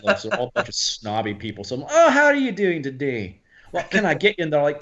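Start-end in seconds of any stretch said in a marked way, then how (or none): 1.9-4.4 higher-pitched Scottish greeting; Scottish accent. Retold or imitated. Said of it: "I just talked with a Scottish accent".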